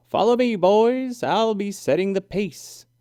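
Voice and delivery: high, loud confident call. A narrator's reading. Franny calling to the other skiers, high bold call. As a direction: shout back the challenge to the boys. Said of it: "Franny called out to the others".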